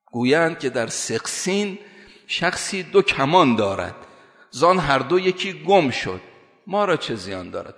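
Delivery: slow, measured verse recitation; poetry recitation. Acted. Preacher quotes Molavi to make his point, slow poetry recitation. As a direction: recite the verse slowly, stretching each phrase.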